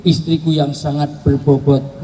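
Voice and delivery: slow, mock-solemn endearment; slowly, a hint of a grand love line; mock flowery address. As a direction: lay it on like a courtly compliment. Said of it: "Buatlah panggilannya".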